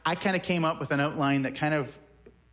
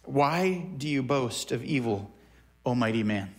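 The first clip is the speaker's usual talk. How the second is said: dripping sarcasm; 2 semitones lower than usual. Retold or imitated. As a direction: let the scorn drip off each word. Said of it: "the irony, the sarcasm is dripping".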